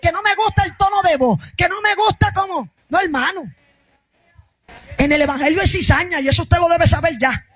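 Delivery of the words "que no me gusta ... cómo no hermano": raised, insistent preacher's voice; fiery preaching. Real, not acted. Pastor rebuking churchgoers over petty grievances, fiery preaching. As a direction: drive it home to the congregation.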